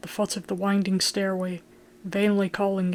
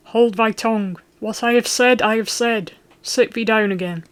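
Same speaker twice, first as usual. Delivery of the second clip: a father silencing his son, shouting; commanding shout; 3 semitones higher, 6 dB louder than usual. Acted. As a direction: slam the words down like a fist. Falk bangs fist, silences son.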